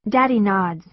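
ordinary delivery, nothing marked

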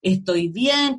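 slow, calming reassurance to a crying friend; retelling how she calmed a tearful friend, slow and reassuring. Retold or imitated. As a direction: soothe them, slowly. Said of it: "tuve que un poco contener a algunos amigos".

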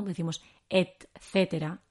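etcétera said slowly, t pronounced; careful etcétera. Shown as a demonstration. Teacher modelling the careful form. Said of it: "como la T no es muy cómoda".

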